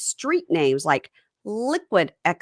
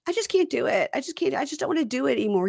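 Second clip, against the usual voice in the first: wife; 7 semitones higher, faster than usual. Retold or imitated. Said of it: "And then she goes".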